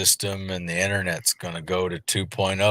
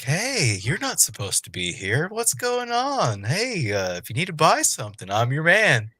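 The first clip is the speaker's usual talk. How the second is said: high, swooping character voice; Taj; 9 semitones higher than usual. Acted. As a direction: play a hustler greeting customers, pitched way up. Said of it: "Taj come running up and be like".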